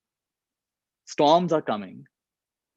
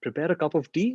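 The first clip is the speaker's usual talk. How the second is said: puzzled question, rising at the end; incredulous echo; 3 semitones higher, 3 dB quieter than usual. Retold or imitated. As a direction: repeat the order as if it makes no sense. Disbelief at the captain's order.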